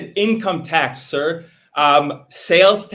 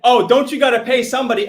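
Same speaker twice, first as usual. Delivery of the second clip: lightly mimics the questioner in a mock voice; mocking imitation; 4 semitones higher, faster than usual. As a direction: hams up the other man's question a little, pitched up. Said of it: "so he said, he said".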